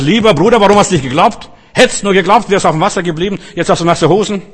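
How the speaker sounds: playfully chide, as if scolding; mock scolding. Preacher imagining Jesus telling Peter off, mock scolding. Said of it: "den Petrus geschimpft und gesagt".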